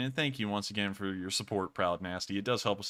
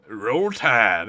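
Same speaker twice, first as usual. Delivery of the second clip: reflex cheer; 9 dB louder than usual. Acted. Reflexive Alabama cheer after reading.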